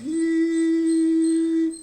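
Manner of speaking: a sudden very high, loud squeal like a toy; kid-style helicopter squeal; playful high squeal. Pretend.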